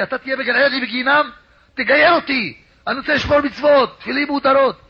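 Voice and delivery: high, urgent retold pleading; heartfelt crying. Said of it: "התחיל לבכות מכל הלב שלו".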